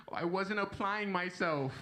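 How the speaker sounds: slow, laughing fake apology; mock contrite kid. To his father, a laughing mock apology. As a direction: play the sorry son, half laughing. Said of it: "you act like you, you trying to do better".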